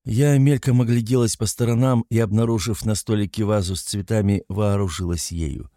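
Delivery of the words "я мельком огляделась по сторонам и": ordinary delivery, nothing marked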